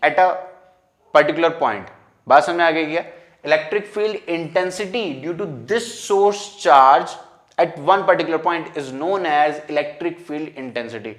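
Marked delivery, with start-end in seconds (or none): 3.4-11.1 measured, very slow note-giving pace; slow dictation. Real, not acted. Teacher dictating a definition for students to write, slowly. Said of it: "धीरे धीरे बोलता हूँ".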